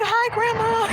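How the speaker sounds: high, bright burst of joy to her grandma; tearful joy. Retold or imitated. Greeting late grandma through sign.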